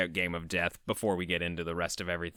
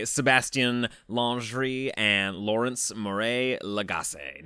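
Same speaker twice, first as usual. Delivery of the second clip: French accent; slower than usual. Real, not acted. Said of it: "I loved your French accent there".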